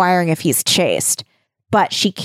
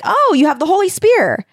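high-pitched, hammed-up amazement; overacted excited wonder; mock awe; 11 semitones higher than usual. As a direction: gush high as if beholding a marvel. Squire's acted awe at spear.

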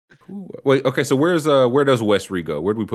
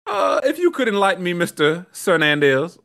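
interrogating; 6 semitones higher than usual. Pretend. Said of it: "mock detective questioning".

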